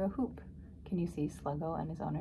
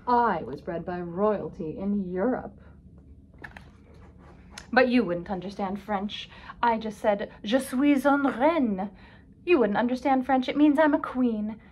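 self-important royal airs, increasingly emphatic; haughty boasting; 3 semitones higher, 6 dB louder than usual. A narrator's reading. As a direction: lord it over a lowly mutt. Snobbish dog boasts of royal breeding.

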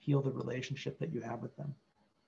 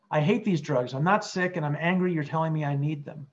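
angry patient; 5 dB louder than usual. Acted. Patient voiced in role play.

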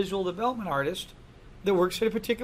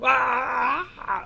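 a quick, pitched-up cry of alarm; mock scream; 5 semitones higher than usual. Lecturer voicing the screaming town folk with a mock cry. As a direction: yelp like a frightened townsperson. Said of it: "They're all screaming and yelling".

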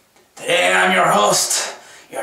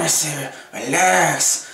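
calming down; 4 semitones lower, slower than usual. Shown as a demonstration. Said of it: "gotta calm yourself down".

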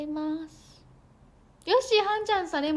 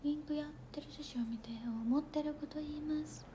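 内緒話のささやき; 4 semitones higher, 6 dB quieter than usual. Real, not acted. Confiding a secret to viewers.

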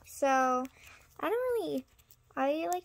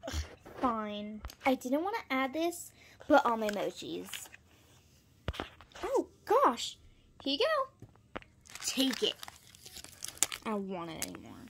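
reluctant sigh; 2 semitones lower than usual. Pretend. Pretend buyer gives in reluctantly.

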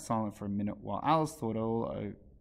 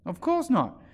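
scornful; 12 semitones higher, 6 dB louder, slower than usual. A narrator's reading. Hatter's scornful reply.

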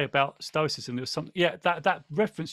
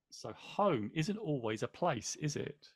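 much softer, trailing into a whisper; soft reflective repeat; 8 dB quieter, slower than usual. Real, not acted. Host musing on the quote, softly to himself. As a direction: say it again to yourself, almost breathed. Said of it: "repeats the quote to reflect".

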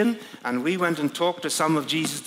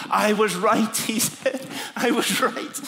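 joyful exclamation; 5 semitones higher than usual. Retold or imitated. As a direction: exult with a laugh in your voice. John exults after recognizing Messiah.

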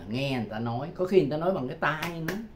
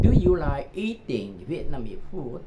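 slow linked demo; 4 dB louder, slower than usual. Shown as a demonstration. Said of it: "đọc liền với nhau".

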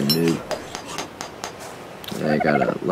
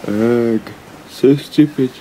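high, louder exasperated groan; 4 semitones higher, 3 dB louder, much slower than usual. Real, not acted. Gamer just died in episode two, an exasperated high complaint. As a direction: vent the frustration. After dying to raptor.

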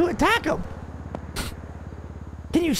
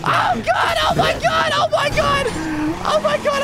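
hyperventilating; 3 semitones higher than usual. Acted. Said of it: "I'm panicking".

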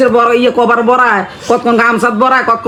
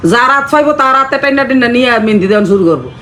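complaining about the daughter-in-law, a little raised; lightly played scolding mother-in-law; mock nagging mother-in-law. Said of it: "typical শাশুড়ির মতো করেন".

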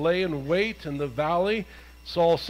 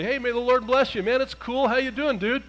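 casual dude; 5 semitones higher than usual. Acted. Saul greets Samuel casually.

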